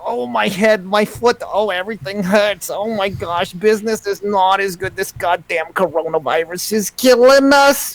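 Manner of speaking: put-on high, complaining Jewish accent. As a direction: complain about every ache in a Jewish accent. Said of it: "What's a Jewish accent?".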